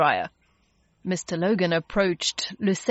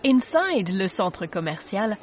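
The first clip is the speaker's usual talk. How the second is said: ordinary delivery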